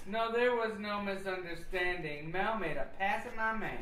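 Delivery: angry accusation. Acted. Jealous woman accusing Mel over her man, angry. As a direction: fire back, insisting there was no mistake.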